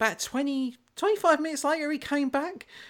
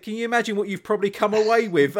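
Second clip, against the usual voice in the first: laughing question; faster than usual. Retold or imitated. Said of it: "He said".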